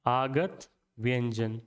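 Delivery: आगत व्यंजन said slowly and low for writing down; slow dictation voice. Shown as a demonstration. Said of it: "यहाँ आगे लिख लेते हैं".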